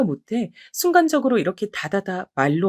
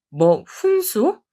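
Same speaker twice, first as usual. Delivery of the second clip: slow, stunned repeat of the word, louder; can't believe what she just heard; incredulous; 4 semitones higher, 3 dB louder, much slower than usual. Acted. Older sister-in-law stunned by the insult, repeating it slowly.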